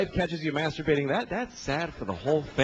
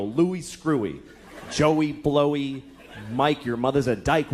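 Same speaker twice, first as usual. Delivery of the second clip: schoolyard taunts; 3 semitones lower, slower than usual. Retold or imitated. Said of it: "they go".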